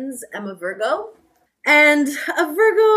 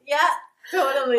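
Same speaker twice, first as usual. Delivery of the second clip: slowly; 3 semitones higher, much faster than usual. Retold or imitated.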